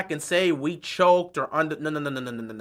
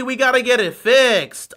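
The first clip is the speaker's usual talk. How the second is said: loud mock disbelief, pitched up; heavily sarcastic, raised voice; sarcastic echo; 4 semitones higher, 5 dB louder than usual. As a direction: echo it as if it were shocking news. Mocking echo of coach's quote.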